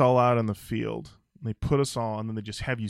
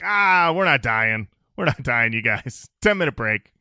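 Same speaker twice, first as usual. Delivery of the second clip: mock breezy band leader; 7 dB louder than usual.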